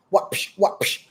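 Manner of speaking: spoken whip-crack noises; imitated whip crack. Saturn cracking a whip to urge people on, mock whip cracks. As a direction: make short whip sounds with the mouth. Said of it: "you hear my whip".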